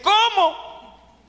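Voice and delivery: high, stunned question; astonished what. Retold or imitated. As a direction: gasp it out in disbelief. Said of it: "yo le dije".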